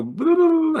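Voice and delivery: squeaky sped-up chipmunk voice; high, fast cartoon chipmunk. Shown as a demonstration. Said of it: "I sound like a cartoon singing group".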